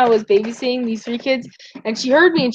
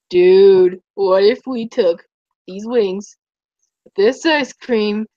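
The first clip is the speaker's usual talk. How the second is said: tired stoner voice; 3 semitones lower, slower than usual. Retold or imitated. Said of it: "the way that voice was".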